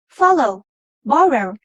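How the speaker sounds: "follow, borrow", each stressed on the first syllable. Shown as a demonstration. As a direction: hit FOL in "follow", BOR in "borrow". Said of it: "the first syllable is stressed".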